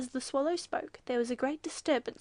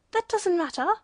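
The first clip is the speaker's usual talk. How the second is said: loud, high-pitched indignant retort; shouted; 6 semitones higher, 8 dB louder than usual. A narrator's reading. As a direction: shout the objection down. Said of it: "shouted the waterfowl".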